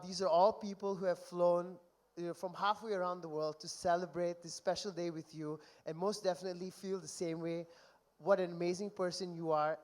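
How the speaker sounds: earnest, heartfelt and gentle; sincere tribute. Real, not acted. Best man turning sincere to the groom, heartfelt. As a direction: let the jokes drop and speak from the heart. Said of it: "I'm gonna get really emotional now".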